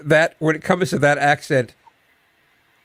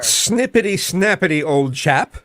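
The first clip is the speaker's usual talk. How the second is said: deliberately awful mock English accent; hammed-up English chap, badly faked. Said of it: "Was that your English accent?".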